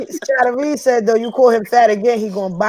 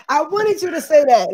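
calmer take; 6 semitones higher than usual. Real, not acted.

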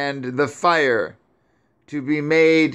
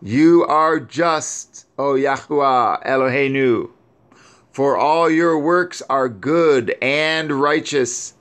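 higher mournful voice, grief turning to praise; weeping lament; 3 semitones higher than usual. Acted. Grieving Sarah praising Yahuwah over her son, higher lament. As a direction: cry out to heaven in sorrow, held high. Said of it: "And she still continued to weep".

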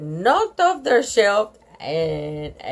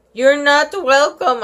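higher, louder defiant snap; sulky kid refusing politeness; mad child; 6 semitones higher, 5 dB louder than usual. A narrator's reading. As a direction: spit it back at her. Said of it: "she's so mad".

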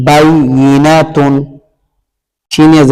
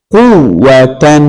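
slow blending; much slower than usual. Shown as a demonstration. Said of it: "slow blended reading".

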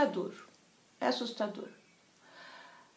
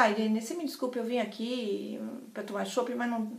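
retold glum, faltering excuse to a friend; very sad; 7 dB quieter than usual. Sad woman apologises to her friend, dejected. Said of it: "tava muito triste".

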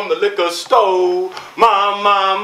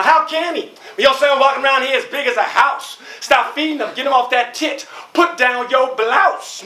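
higher, fast mocking put-down; trash-talk the other mom's son; mother mocking the other child's size; insulting mother; 5 semitones higher, faster than usual.

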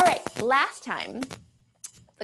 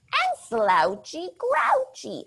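slouchy grouchy voice; 4 semitones higher, slower than usual. Shown as a demonstration.

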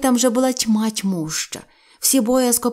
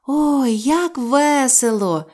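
higher, louder, slow gleeful cry; joyful cry; 5 semitones higher, 3 dB louder, much slower than usual. Acted. Both children crying out together, high and joyful. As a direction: shout it out with glee. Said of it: "в один голос гукнули".

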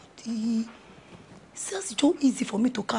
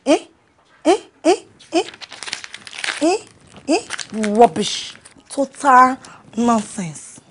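angry outburst; 3 semitones higher, 5 dB louder, slower than usual. Acted.

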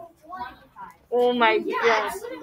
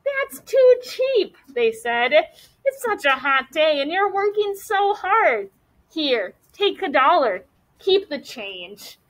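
a hint of doting customers; lightly voiced grown-ups; 4 semitones higher than usual.

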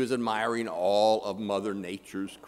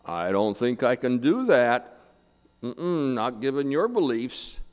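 lightly voiced God, louder; big heavenly voice; 5 dB louder than usual. God turning down the atheist, lightly played big voice. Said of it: "this big voice that came from the heavens".

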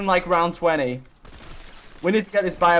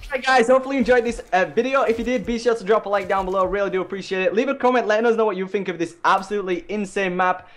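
youtuber outro. Acted. Video outro to viewers.

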